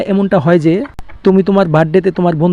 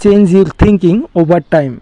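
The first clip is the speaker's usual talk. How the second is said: very slow, careful English; slow model sentence; much slower than usual. Shown as a demonstration. Teacher giving the English translation, slow and deliberate. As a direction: lay each word out slowly. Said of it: "এটা ইংলিশে কি হবে?".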